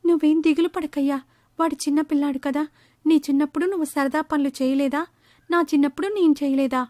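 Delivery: wife soothing a worried husband; consoling mother. Acted.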